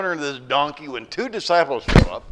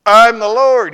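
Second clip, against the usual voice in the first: booming voice from above; 8 semitones higher, 16 dB louder, slower than usual. Acted. Lord answers from above.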